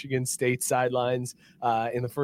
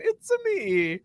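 put-on British accent gone wrong, pitched high; mock a failed British accent with a high voice; imitating a hopeless British attempt; botched British accent; 13 semitones higher, slower than usual. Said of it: "to do a British accent".

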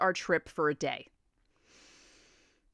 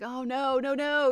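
retold dismay; 6 semitones higher than usual. Retells panic at losing radio signal.

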